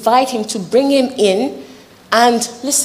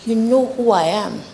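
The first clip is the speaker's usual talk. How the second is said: Jesus, pitched higher and rising as he presses; a preacher's higher, pressing Jesus voice; voicing Jesus; 4 semitones higher than usual. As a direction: speak as Jesus calling across the storm. Jesus called out to them.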